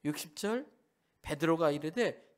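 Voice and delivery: ordinary talk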